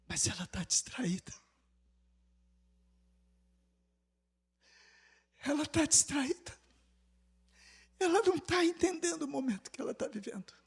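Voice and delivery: soft hushed whisper; God whispering about his distracted bride. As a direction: breathe it out like a secret. The Lord speaks of his bride.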